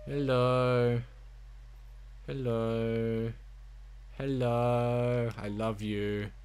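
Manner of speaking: cooing to a dog. Real, not acted. Player begging the game's dog for a cuddle, cooing. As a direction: coo lovingly, fading into a soft plea.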